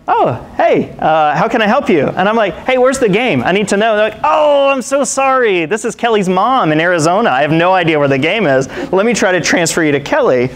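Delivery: mock mom on the phone; Kelly's mom on the phone. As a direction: sound like a flustered mom answering a stranger's call. Voicing Kelly's mom answering the phone.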